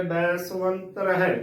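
ਬੈ ਸੁਵੰਤ ਰਹਿ with ਵ as a u glide, "bai-suant-rahe"; ਬੈ ਸੁਵੰਤ ਰਹਿ spoken in careful parts; shown pronunciation. Shown as a demonstration. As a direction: say the ਵ in ਸੁਵੰਤ as a short u. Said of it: "ਉਚਾਰਨ ਕਰਨਾ ਹੈ".

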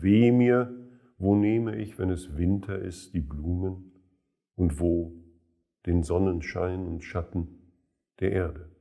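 measured recital, pausing between short phrases; verse quoted with deliberate pauses; quoted verse recitation. Acted. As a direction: recite the lines as poetry, letting them sink away. Quotes verses inside commentary.

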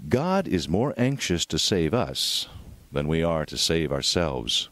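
normal talking voice

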